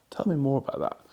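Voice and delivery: gentle, interested prompt. Shown as a demonstration. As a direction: invite them softly to open up. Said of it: "using those tones".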